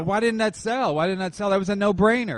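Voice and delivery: exasperated. Real, not acted. Exasperated repeated question.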